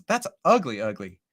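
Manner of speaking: ordinary talk, nothing marked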